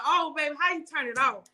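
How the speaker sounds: high, laughing mock panic; laughing mock panic over the bill; laughing plea. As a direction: beg for help, laughing. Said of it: "I said".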